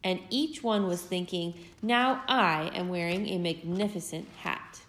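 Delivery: put-on lively storybook read-aloud for little kids; gentle, animated story reading; reading to children. A narrator's reading. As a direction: tell it like a bedtime picture book. Parent reads picture book aloud.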